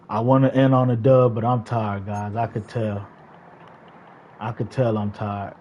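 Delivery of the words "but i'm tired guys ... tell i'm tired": tired. Real, not acted.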